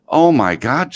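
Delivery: high, loud mock alarm; shocked mother. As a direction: play an alarmed mom. Mother shocked by son's confession.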